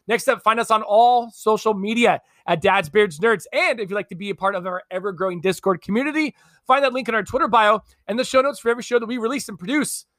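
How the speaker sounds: lively, rehearsed sign-off patter; podcast outro read. Acted. Host telling listeners where to find the show, outro read. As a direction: run through the show's plugs like a practised host.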